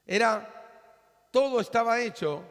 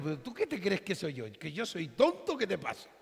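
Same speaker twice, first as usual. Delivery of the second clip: imitating Jehoshaphat; 3 semitones higher, faster than usual. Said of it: "Yo soy el rey Josafat".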